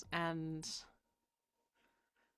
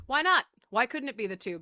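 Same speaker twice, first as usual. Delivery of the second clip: mock incredulous; 4 semitones higher, 7 dB louder than usual. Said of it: "she was like".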